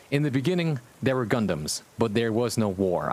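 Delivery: dramatic storybook opening; story narration. A narrator's reading. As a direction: read it like an epic prologue. Reading fanfic opening.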